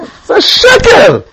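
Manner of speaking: high, slow, loud retold shout; mock angry shout. Rabbi denouncing the MC's words at the party, slow mock shout. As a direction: bellow it out as the offended rabbi.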